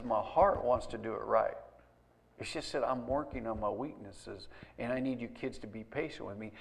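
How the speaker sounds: soft, low humble appeal; gentle retold appeal. Dad asking his kids for patience, gentle appeal. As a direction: lightly act a dad quietly asking for patience.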